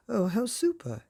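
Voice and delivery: high delighted squeal. A narrator's reading. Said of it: "she squealed".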